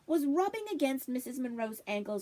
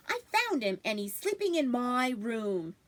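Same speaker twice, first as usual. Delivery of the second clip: put-on insistent boy. Boy insists he found rabbit.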